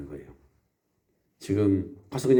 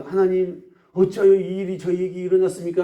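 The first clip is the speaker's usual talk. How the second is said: imitated prayer; 5 semitones higher than usual. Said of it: "하나님 앞에 기도하면서".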